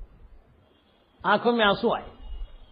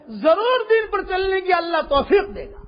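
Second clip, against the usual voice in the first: preaching shout; 3 semitones higher than usual. Real, not acted. Preacher's climactic promise.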